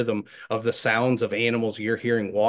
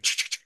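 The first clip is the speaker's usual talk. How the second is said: sporadic squirrel scratching; 5 dB quieter, faster than usual. Shown as a demonstration. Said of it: "they'll pause for a second".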